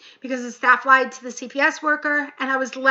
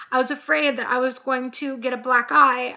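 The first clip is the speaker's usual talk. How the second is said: holding back tears; choked up. Real, not acted. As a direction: voice tight with tears. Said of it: "I'm getting teary-eyed and choked up".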